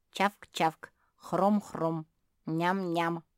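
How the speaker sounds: munching sounds in a strange voice; a hidden pug chomping on treats; chomping noises. A narrator's reading. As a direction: smack and crunch like eating sweets.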